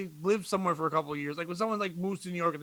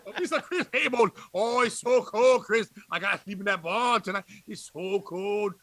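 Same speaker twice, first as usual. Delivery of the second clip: hammed-up Southern impression; 5 semitones higher, 7 dB louder than usual. Greeting Bobby down in Georgia, hammed-up Southern impression. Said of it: "whenever I go down there, I'm like".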